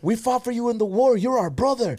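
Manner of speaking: high put-on Irish local voice; hammed-up friendly Irishman; imitating Irish locals. Repeating the Irish locals welcoming them, high put-on voice.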